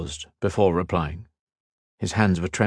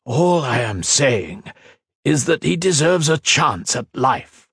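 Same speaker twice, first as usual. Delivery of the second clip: measured plea; 6 semitones higher than usual. A narrator's reading. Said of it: "took another long breath".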